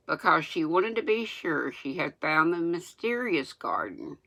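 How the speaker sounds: reading without teeth in; gummy toothless speech. Real, not acted. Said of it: "I'm gonna sound crazy reading without my teeth".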